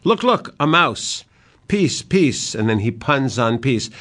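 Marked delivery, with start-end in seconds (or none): 0.0-2.5 much higher, wild and giddy; a mad king's sudden excited outburst; sheer madness. Acted. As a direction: chase a mouse only the madman sees. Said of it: "And then in sheer madness".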